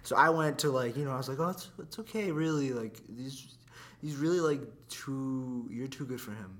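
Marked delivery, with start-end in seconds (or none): 1.4-6.6 soft, reassuring words to a friend; consoling. Retold or imitated. Friend comforting a girl after her breakup, soft consoling. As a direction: comfort them gently, hesitantly.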